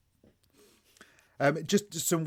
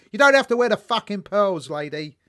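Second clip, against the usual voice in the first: louder, higher mock telling-off; imitated loud scold; 7 semitones higher, 9 dB louder than usual. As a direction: bark it like a fed-up veteran actor. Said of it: "Olivier to Dustin Hoffman went".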